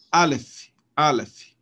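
"aleph" punched on the first syllable, A-leph; stress on first syllable. Shown as a demonstration. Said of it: "Aqui também você tem acento".

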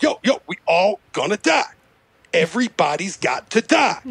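lightly imitated rapper, dramatic pauses; a hint of rapper impression; mock-ominous rapper pronouncement. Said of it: "the only impression I can fucking do".

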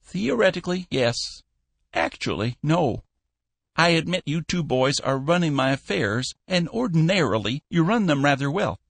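a hint of a cranky old shipowner grumbling; fussy old boss. A narrator's reading.

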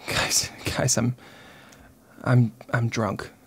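slow hushed confession whisper. Real, not acted. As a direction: lean in and whisper the secret. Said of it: "I gotta whisper it".

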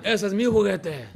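put-on childish possessive whine. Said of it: "ahí están".

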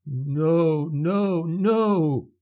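rising, frantic repeated no; panicked babbling. A narrator's reading. Andre panicking as the hand grabs the skiff, frantic babble. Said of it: "he babbled".

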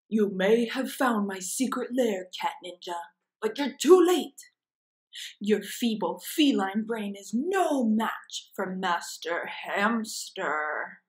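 gloating cartoon villain, lightly voiced; villain hamster. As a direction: sneer at the cat from the secret lair. Reading villain hamster's speech.

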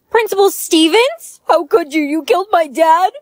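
high, shocked disbelief. Acted. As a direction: react in horrified disbelief. Shocked son.

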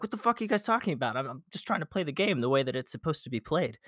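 high, fast, baffled outburst; exasperated self-quote. Retold or imitated. His own confused reply to teammates, high and fast. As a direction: fire it off in high-pitched disbelief. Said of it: "I was like".

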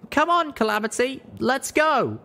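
high, urgent hurry-up; urgent call. Acted. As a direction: rush your friend out the door. Urging companion to flee.

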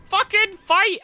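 high, loud exasperated yelling; acted-out furious shouting; raging. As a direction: re-enact screaming at a useless teammate, slow and drawn out. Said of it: "I was raging at Gale".

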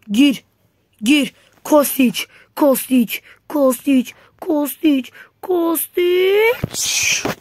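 building excited chant of a name; urging shout. Real, not acted. Urging player on attack.

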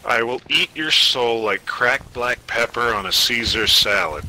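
a hammed-up ghost threat, loud at the end; mock ghost threat. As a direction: menace them like a hungry ghost.

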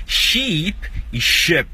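"Sheep" stretched ee, "ship" short i, very slow; long versus short i. Shown as a demonstration. Teacher asking students to hear "Sheep e ship". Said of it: "escuta mesmo".

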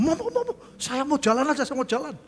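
high, laughing whine; laughing mock protest. Preacher replaying his own protest for the congregation, laughing. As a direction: replay the plea while laughing at yourself.

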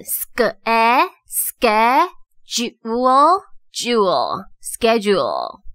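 "schedule" split into "ske" and "jewel", then joined; sounding out syllables. Shown as a demonstration. Teacher reviews schedule for learners, sounding out. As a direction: say "schedule" in separated pieces, then whole. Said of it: "再来复习一次".

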